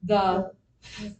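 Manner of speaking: slow, measured reading aloud for a class; read-along. Real, not acted. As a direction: read it out slowly so pupils can join in. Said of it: "let's read what it says".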